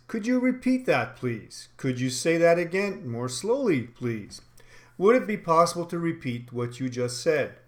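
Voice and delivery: polite, measured request with a dropped "please"; formal polite request. Shown as a demonstration. Sales trainer models asking a customer to repeat, formally polite. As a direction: ask formally, letting "please" fall. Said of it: "how we say it and the tone".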